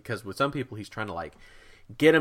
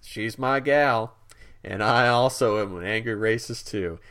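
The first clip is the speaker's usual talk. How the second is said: mock boyfriend voice; 3 semitones higher, 3 dB louder than usual.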